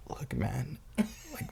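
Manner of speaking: pleading. Retold or imitated. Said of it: "I'm over here fucking just like".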